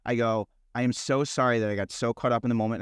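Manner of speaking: mildly contrite, voice dropped; apologetic. Retold or imitated. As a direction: tell the wife sorry, low and restrained. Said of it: "I apologized to my wife".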